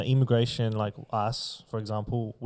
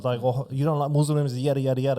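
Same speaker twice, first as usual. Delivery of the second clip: higher, sing-song mock of a scolding youngster; mock Gen Z voice, higher pitch; 3 semitones higher, 3 dB louder than usual. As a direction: ridicule the Gen Z who cry racist. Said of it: "They're like".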